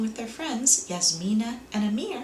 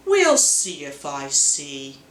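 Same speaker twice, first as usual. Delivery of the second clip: Kat's doubt; 7 semitones lower, 4 dB louder, slower than usual. A narrator's reading. Kat doubtful about giving.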